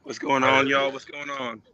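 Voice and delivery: rough, worn-out speaking voice; hoarse voice. Real, not acted. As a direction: voice a little shot. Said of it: "my voice is a little shot".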